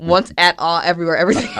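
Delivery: title said backwards, laughing; backwards speech. Shown as a demonstration. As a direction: read the words in reverse order. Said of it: "Now say it backwards".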